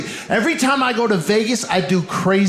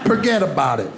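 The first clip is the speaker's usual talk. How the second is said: Brooklyn Italian; 5 semitones lower than usual. Retold or imitated. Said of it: "my cat is Italian from Brooklyn".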